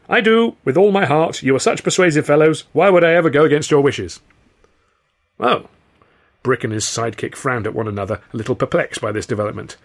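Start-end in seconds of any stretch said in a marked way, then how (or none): 0.1-4.2 high, loud, eager grovelling; fervent, panicky appeasement; desperate flattery. A narrator's reading. Victim flattering thugs to escape beating. 5.4-5.7 high, perplexed oh; baffled little oh; puzzled thug. A narrator's reading.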